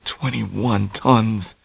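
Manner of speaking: Tommy fretting over her words; worried Tommy. A narrator's reading. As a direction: repeat it with dread. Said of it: "he worried".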